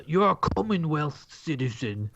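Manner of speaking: slow, lightly voiced old New Zealander; old New Zealand guy. Co-host supplying the old man's line, in a lightly put-on voice. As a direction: draw it out as a mock old Kiwi. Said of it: "What would he say?".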